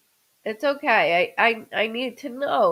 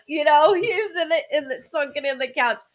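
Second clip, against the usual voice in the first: choked up; 4 semitones higher, faster than usual. Real, not acted. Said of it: "that choked me up".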